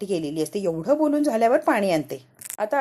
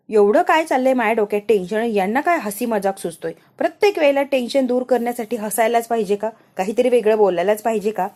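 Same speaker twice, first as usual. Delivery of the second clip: louder, exasperated retold scolding; annoyed; 5 dB louder than usual. Wife scolds husband for joking amid tension, annoyed. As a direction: act out a fed-up telling-off. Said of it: "Rama आता रागाने बघते अक्षयकडे".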